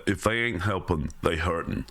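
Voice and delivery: lightly put-on New Jersey mobster accent; a hint of a New Jersey gangster accent. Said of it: "terrible New Jersey accent".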